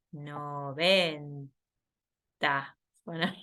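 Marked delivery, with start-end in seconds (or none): 0.1-1.5 slow drawn-out. Shown as a demonstration.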